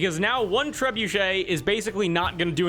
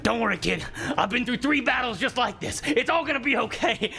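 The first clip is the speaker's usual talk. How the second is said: put-on reassuring old bow; 5 semitones higher than usual. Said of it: "and it's like".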